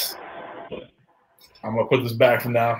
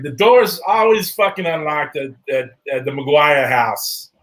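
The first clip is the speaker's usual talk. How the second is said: put-on Boston accent; 2 semitones higher than usual. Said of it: "you did that Boston accent pretty good".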